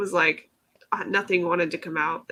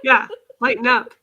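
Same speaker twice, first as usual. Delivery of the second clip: laughing while speaking; giggly, breaking into laughter; 4 semitones higher, 6 dB louder than usual. Real, not acted. Laughing reply.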